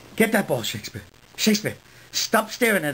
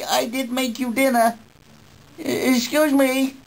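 higher, prim mock-posh asking; mock-polite request; 6 semitones higher than usual. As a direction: pretend the dog is your butler. Asking dog for tea, mock-polite.

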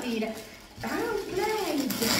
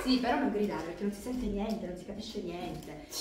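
hushing; 7 semitones lower, 5 dB quieter than usual. Real, not acted. Hushing child.

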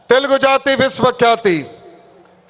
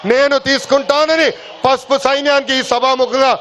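rally shout. Real, not acted. Closing pledge to party workers.

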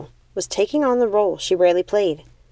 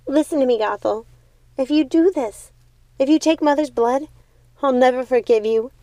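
higher, pleading sister's voice in tears; a tearful plea, holding back sobs; 5 semitones higher than usual. Acted. Younger sister begs Gothel not to take the blood, tearful. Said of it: "Primrose was in tears".

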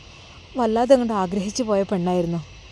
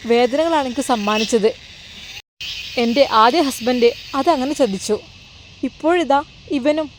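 hurt, embittered Nuseba; 3 semitones higher than usual. Acted. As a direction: mildly play a betrayed woman refusing men. (ചെറുതായി അഭിനയിച്ച വേദനയും വെറുപ്പും)

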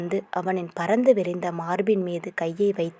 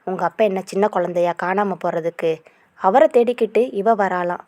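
angry. Acted. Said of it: "அவன் கோபமாக பேச".

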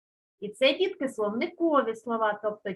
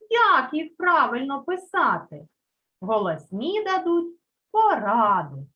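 poem recital. Acted. Teacher reciting a poem to the class, rhythmic. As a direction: recite each line with a clear beat. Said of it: "підготувала віршик. Давайте його прослухаємо".

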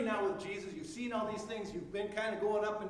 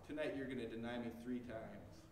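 solemn prediction; 9 semitones lower, 8 dB quieter than usual. Acted. Jesus telling Peter he will deny him, low and solemn. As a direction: lower and softer, gravely foretelling.

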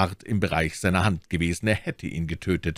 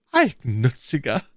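teasing, said with a smile; a touch higher, through a smile; smiling; 6 semitones higher, 4 dB louder than usual. A narrator's reading. Milady teases her suitor, smiling. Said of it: "sprach sie lächelnd".

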